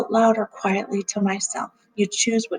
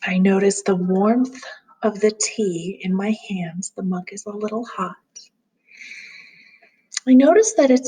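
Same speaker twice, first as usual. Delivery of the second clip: calm grounding exercise. Acted. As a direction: gently guide them through noticing.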